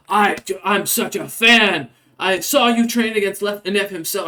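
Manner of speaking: high, breathless fanboy squeak; starstruck rat folk. Acted. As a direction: gush up high like a nervous little rat fan. Rat folk gushing to Ferrum.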